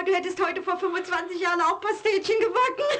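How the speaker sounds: can't keep a straight face picturing it; laughing. Acted. Wife imagines him baking, laughs. (lacht ihren Mann aus, kann sich nicht halten)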